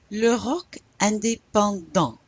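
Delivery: INDÉPENDANT ending on a nasal vowel, no T; French "indépendant", last syllable "dahn" without T; silent final T. Shown as a demonstration. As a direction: leave the T off the end of "indépendant". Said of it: "You don't pronounce the T".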